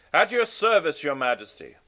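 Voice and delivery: high, loud first go at a deep gravelly voice; failed deep voice. A narrator's reading. Onegin answers the king, an overshooting loud attempt. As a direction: aim for gravel but land high and loud. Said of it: "his voice deep and gravelly".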